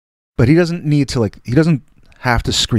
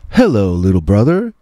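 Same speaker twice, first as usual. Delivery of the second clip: Jim Brown. Retold or imitated. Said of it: "he's like".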